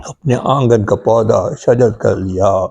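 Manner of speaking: steady, metrical Urdu verse recital; poetry recitation. Acted. Poet repeats a requested couplet about parents, reciting. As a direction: recite in measured lines, each falling to its close.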